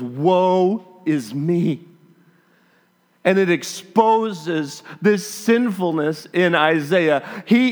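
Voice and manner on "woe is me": slow lament. Retold or imitated. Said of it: "he goes".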